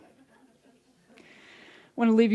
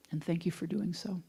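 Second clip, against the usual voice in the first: soft whispered thanks during prayer; whispered aside; 7 dB quieter than usual. Real, not acted. Minister thanks the practitioners mid-prayer, whispered aside. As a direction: whisper it so the prayer isn't broken.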